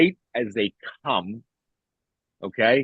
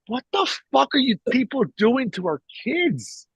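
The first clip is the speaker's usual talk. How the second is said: higher, disbelieving retold rant; exasperated outburst; 10 semitones higher than usual. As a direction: throw the question up in outrage.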